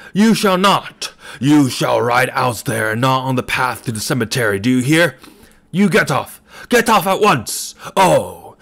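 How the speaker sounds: put-on enraged old man bellowing at a cyclist. A narrator's reading. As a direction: roar it like a beast. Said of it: "it was no longer a human voice".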